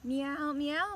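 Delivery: a playful meow, last one rising; cat meow. Acted. Cat voiced in picture book.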